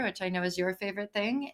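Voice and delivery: quick, dry sarcastic aside. Real, not acted. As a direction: tease the co-host with a fast deadpan jab. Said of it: "she said sarcastically".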